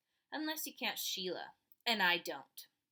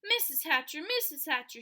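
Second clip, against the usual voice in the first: higher, louder eager calls; calling out; 5 semitones higher, 6 dB louder than usual. A narrator's reading. Sheila calling to Peter's mother, eager and loud. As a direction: get the grown-up's attention. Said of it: "Sheila called".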